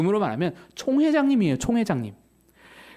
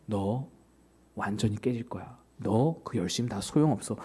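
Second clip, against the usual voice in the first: lower, softer blunt warning; Jesus voiced low and quiet; 10 semitones lower, 6 dB quieter than usual. Jesus warns the overeager disciple, in a low hushed voice.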